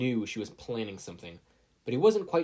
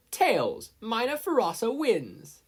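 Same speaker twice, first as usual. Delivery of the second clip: high, loud victory call; announcing the winner; 12 semitones higher, 6 dB louder, slower than usual. A narrator's reading. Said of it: "announced the results".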